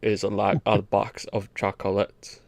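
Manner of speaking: slow, low Deep South drawl as Forrest Gump; a lazy Southern Forrest drawl; Deep South accent. Retold or imitated. Friends asked for the accent, slow Deep South drawl. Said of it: "the most famous Deep South accent".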